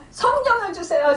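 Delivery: first plea pitched high and eager; fervent prayer. Retold or imitated. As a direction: pray out with rising fervour. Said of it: "막 그러면서 기도를 한 거예요".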